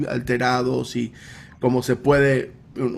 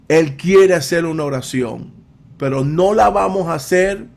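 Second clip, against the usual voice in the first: mildly raised, commanding announcement; voice of authority; 3 semitones higher than usual. Retold or imitated. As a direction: lay down terms to the crowd, firmly. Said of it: "grita con una voz de autoridad". (voz de autoridad, firme)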